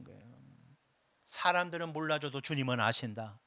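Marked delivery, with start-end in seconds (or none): 1.3-3.4 comforting. Shown as a demonstration. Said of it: "이 말씀에 위로받으시기 바랍니다".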